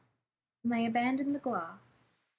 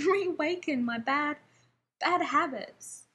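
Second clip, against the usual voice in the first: gasping with laughter; 5 semitones higher than usual. A narrator's reading. Rodney laughing drunk beside John, confessing through giggles. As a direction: giggle it out breathless.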